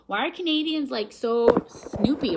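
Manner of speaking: high-pitched imitated exasperation, stretched on snoopy; hammed-up annoyed question; mock annoyed. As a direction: complain like a fed-up visitor. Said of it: "they got so annoyed".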